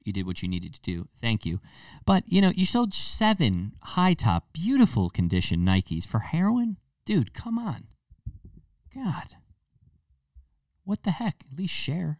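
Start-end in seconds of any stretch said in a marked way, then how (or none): 2.0-6.8 mock outrage. Mock outrage at heroin thief. 7.0-12.2 pitched way up in mock disbelief; high mock outrage. Comic squeal of outrage at the shoe thief. Mock indignation over shoes.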